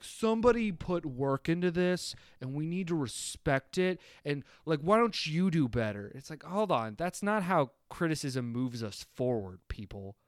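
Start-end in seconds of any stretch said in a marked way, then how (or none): 0.0-6.1 preachy fan voice. Retold or imitated. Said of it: "the over positive of, like".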